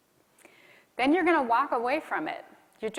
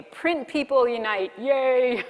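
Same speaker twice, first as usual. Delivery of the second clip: excited cheer; 3 semitones higher, 5 dB louder, slower than usual. Real, not acted. Mock cheer for print people.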